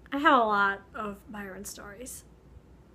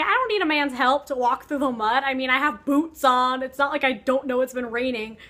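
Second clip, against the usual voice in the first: mock outraged Mary, growing louder; half-joking indignation rising to a louder end; mildly indignant; 5 dB louder than usual. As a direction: snap back, insulted at the offer. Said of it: "she's mad because she's like".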